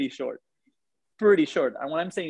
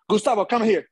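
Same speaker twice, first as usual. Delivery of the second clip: commanding call; 6 semitones higher, 3 dB louder than usual. Retold or imitated. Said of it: "he points at me and he says".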